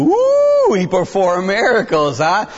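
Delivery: mock amazement. Priest mocking kid's answer.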